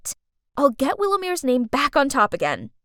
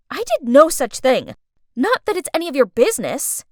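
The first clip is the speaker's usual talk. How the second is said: indignant retort; 5 dB louder than usual. Acted. Retort to mocking girl.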